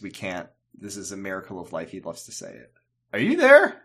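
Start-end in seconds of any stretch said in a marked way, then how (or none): 3.1-3.8 high, loud call into the void. Real, not acted. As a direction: call out to check the connection. Connection drops, calling out.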